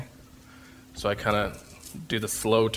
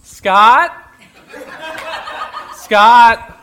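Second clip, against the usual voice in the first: imitated call; 13 semitones higher, 12 dB louder than usual. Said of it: "She goes".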